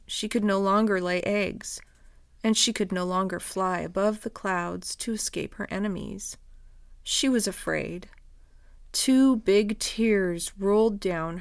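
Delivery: gentle storybook narration; reading to children. Acted. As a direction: read it like bedtime story. Reads children's story aloud.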